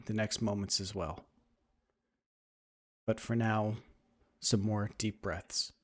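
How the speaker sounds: unhurried meditation guide, long pauses between phrases; guided meditation. Acted. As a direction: ease them into stillness with measured, even phrasing.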